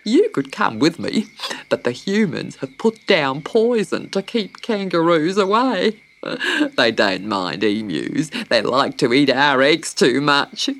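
putting on a big bird's voice; hearty emu. A narrator's reading. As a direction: explain it as a matter-of-fact emu.

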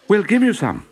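put-on high, eager children; sweet little children offering a gift; children's voice. A narrator's reading.

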